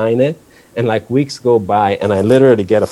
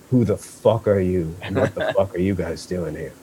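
softer, menacing imitation; imitating a hostile skinhead; 2 semitones lower, 7 dB quieter than usual. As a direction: mutter a threat like a suspicious tough guy. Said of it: "And he goes".

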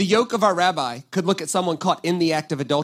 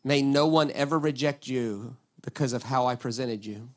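soft, quiet demo prayer; quiet humble prayer spoken aside; hushed prayer; 6 semitones lower, 7 dB quieter than usual. Shown as a demonstration. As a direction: pray it gently and low. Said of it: "maybe we should pray a prayer, something like this".

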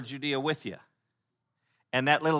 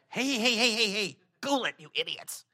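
hushing local; 8 semitones higher than usual. Retold or imitated. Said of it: "they're like".

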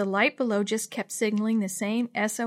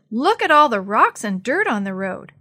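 raised, emphatic exclaiming; excited shout; 7 dB louder than usual. A narrator's reading. Boy pointing out a landslide to the others, shouting. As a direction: exclaim loudly at what you've found. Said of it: "Sammy shouted".

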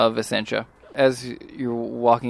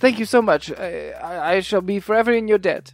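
lightly voiced courteous character, higher pitched; a touch of earnest gratitude; grateful, formal Hutch; 7 semitones higher, 4 dB louder than usual. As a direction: gush formal thanks, stumbling a little. GM plays Hutch giving thanks.

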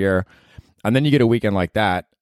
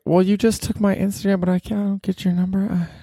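high, whiny complaint; mock indignation; 12 semitones higher than usual. To the girl refusing her number, high whiny complaint. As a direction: pitch it up high in disbelief.

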